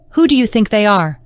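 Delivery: teasing singsong lilt; mock her in a sing-song. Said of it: "mocked in a sing-song voice".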